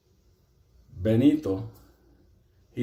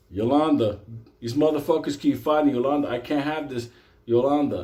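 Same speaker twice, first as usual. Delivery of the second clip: whining inmate; 3 semitones higher, 4 dB louder than usual. Retold or imitated. Inmate whining to Yolanda again.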